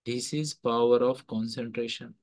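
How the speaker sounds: slow solemn pronouncement. Acted. Swami ji telling the boys the secret, slow and solemn. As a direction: deliver the sage's lesson slowly and gravely. Swami ji's punchline to children.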